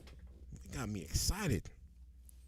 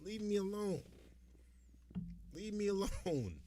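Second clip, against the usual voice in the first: acting as the guy; 6 semitones higher, 12 dB quieter than usual. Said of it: "I'm acting like I'm the guy in the video".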